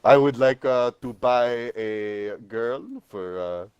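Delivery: slow, halting put-on French accent; mock French accent. Joking about picking up French girls, mock French accent. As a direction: feel out each word in a fake French accent.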